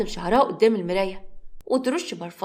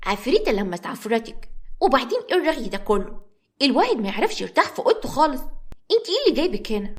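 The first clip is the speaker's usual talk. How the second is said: put-on little girl voice; 3 semitones higher than usual.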